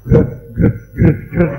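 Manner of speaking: loud, abrupt "grek" noises; imitated grating noise. Priest mimics a grating sound to the congregation, imitated noise. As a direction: make short scraping sounds with the voice.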